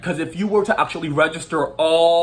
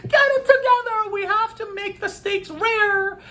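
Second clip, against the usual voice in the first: high, barking kitchen-boss impression; Gordon Ramsay. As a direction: yell orders like a TV chef. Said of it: "who thinks he's Gordon Ramsay going".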